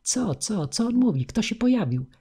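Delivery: high, startled questions; clamouring crowd voices. A narrator's reading. Voices from all sides asking who appeared, clamouring. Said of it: "Rozległy się ze wszystkich stron głosy".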